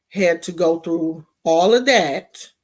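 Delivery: usual speaking voice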